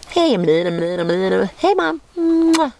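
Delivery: put-on squeaky baby puppy greeting. Speaks for puppy to its mother.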